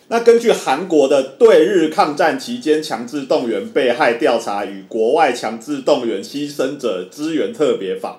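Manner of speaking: rattled off without a pause; all in one breath. Real, not acted. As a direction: read the whole long name on one breath. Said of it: "我最后一口气念完不容易耶". (一口气念完)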